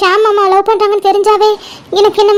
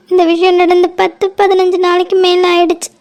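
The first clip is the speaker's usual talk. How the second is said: crying. Acted. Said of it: "அழுதுட்டு இருக்காங்க போல".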